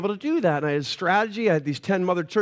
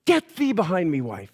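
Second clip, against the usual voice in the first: mock-biblical pronouncement, dropping at the end; hammed-up scriptural command; mock rebuke; 4 semitones lower than usual. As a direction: banish with playful solemnity. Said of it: "I'm like".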